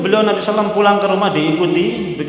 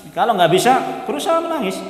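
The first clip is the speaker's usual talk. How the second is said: a comic squeak of a voice pushing itself to cry; mock pleading; 7 semitones higher than usual. Preacher teasing congregants, voice jumping high in mock pleading. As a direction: pitch leaps high on berusaha menangis. Preacher jokes about forced crying.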